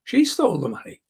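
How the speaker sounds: "She" emphasised at the start; stress on SHE. Shown as a demonstration. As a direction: put the weight on "She" as the correction. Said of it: "changing subtly the meaning".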